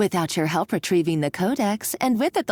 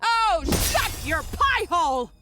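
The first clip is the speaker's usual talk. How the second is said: slow, higher, scornful put-down; contemptuous retort; 8 semitones higher than usual. Acted. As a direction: cut him off with disdain. Villain snaps at hero.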